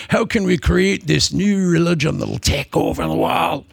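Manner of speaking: lightly put-on Welsh accent. Preacher playing plotters founding a religion, in a mock Welsh accent. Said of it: "I don't know why everybody's Welsh now".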